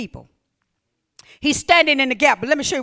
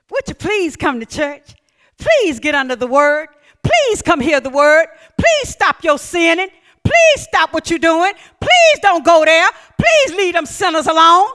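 building plea; 3 semitones higher, 6 dB louder than usual. Acted. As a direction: beg harder and louder each line. Pleading builds to exhortation.

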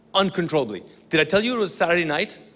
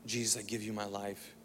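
hushed, much softer surrender; soft prayer; 5 semitones lower, 14 dB quieter than usual. Retold or imitated. Sister repeating the prayer after him, hushed. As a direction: murmur it like a vow.

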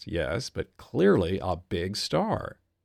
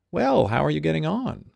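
put-on higher, louder clenched-jaw English accent with "Well" fallen on; a smoky, slightly dirty lockjawed British star voice; imitating a lockjawed English star's accent; 7 semitones higher, 5 dB louder than usual. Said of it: "Lockjawed accent, but not entirely upper class".

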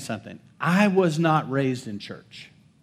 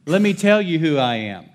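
louder, defiant declaration; bold answer; 3 semitones higher, 6 dB louder than usual. Shown as a demonstration. Pastor answering the accusing voice in his head, loud and defiant. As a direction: stand tall and answer the lie loudly. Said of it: "Sounds a little bit like this".

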